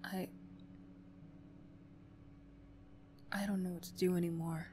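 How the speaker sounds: confide, barely above a whisper; quiet confiding. Acted. Bully confiding in the classmate about the last day of school, hushed.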